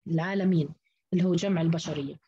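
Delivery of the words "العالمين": العالمين as al-'aalameen; fatha on the lam. Shown as a demonstration. Teacher repeating the form meaning all peoples, open lam. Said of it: "بفتح اللام".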